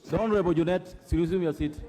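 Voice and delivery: loud, firm command; loud rebuke. Real, not acted. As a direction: order him back to his seat. Speaker rebukes an interrupting member.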